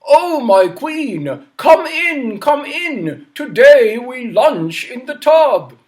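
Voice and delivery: king welcoming queen to lunch; delighted king. Acted. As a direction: greet his queen grandly. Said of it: "And King Bidgood said".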